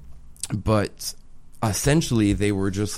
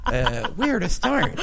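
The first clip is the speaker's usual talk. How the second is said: laughing; much slower than usual. Real, not acted. Laughing at question.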